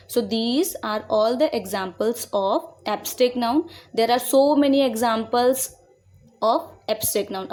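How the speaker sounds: each word spaced out for copying; slow dictation. Shown as a demonstration. Teacher to students, dictating the definition slowly. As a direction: read it slowly so students can write.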